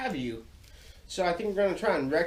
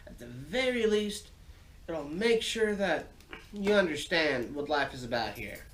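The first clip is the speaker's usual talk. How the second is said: story time voice; 3 semitones higher than usual. Acted. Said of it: "a little bit like story time".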